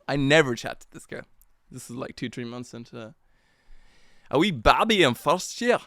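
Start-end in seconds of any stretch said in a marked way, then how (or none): 4.3-5.8 higher, louder Northern Irish or Scottish lilt; swooping, thick Northern Irish brogue; broad regional accent. Shown as a demonstration. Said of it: "if that's Northern Ireland accent or Scottish accent".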